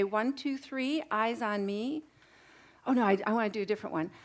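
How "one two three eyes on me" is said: slow singsong classroom call; kindergarten teacher voice. Shown as a demonstration. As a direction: call the class back gently. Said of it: "I'm gonna say".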